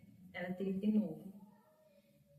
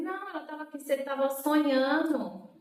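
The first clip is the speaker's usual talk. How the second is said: higher-pitched, hurried reassurance; improvised cover story; 4 semitones higher, 6 dB louder than usual. Retold or imitated. Sister inventing a story for patient, high reassuring retelling. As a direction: make up an innocent explanation. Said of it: "E comecei a inventar história".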